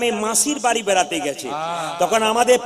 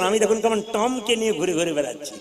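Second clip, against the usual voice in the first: softer, mock-prissy city girl; boastful city girl; 7 dB quieter than usual. Preacher mimics city girl comparing herself to villagers, mock-prissy. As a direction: imitate her quiet self-satisfied boast. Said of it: "কি বলছে দেখুন".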